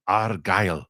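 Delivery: put-on lightly rolled Scottish accent, Braveheart style; a passable Scottish accent, Braveheart flavour. Host imitating a Braveheart Scot, mock Scottish accent. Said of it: "Good attempt at a Scottish accent".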